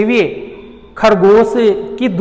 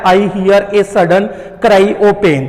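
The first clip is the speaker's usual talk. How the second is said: slow poem reading; much slower than usual. Shown as a demonstration. Teacher rereads the poem line.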